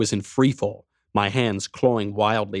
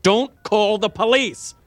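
higher, louder desperate plea; shouting at the neighbours not to call the police; 12 semitones higher, 4 dB louder, slower than usual. Acted. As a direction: shout it at the whole hallway. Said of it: "I shouted at everyone".

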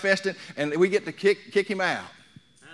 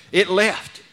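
a louder, ringing cry; loud triumphant shout; 3 semitones higher, 7 dB louder than usual. Acted. Preacher proclaiming the spirit gone, loud shout.

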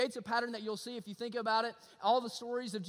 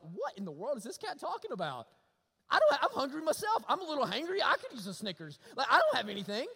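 laughing, louder voice of a baffled disciple; mock disciple; 3 semitones higher, 4 dB louder than usual. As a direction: play the hungry disciple half-laughing. Disciples voiced, hungry and confused.

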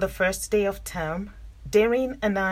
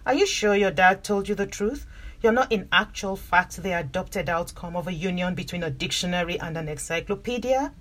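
investigative reporter tone. Acted. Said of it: "I say in my best investigative reporter tone".

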